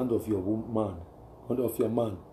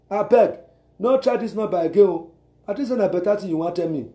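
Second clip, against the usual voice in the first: married woman on phone; 3 semitones higher than usual. Retold or imitated. Married woman warning a stranger caller, firm. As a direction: shut the caller down. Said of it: "married woman you will call".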